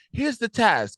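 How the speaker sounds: high, clipped order; mock Noma command. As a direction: hand out the task like a spymaster. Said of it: "But it's like".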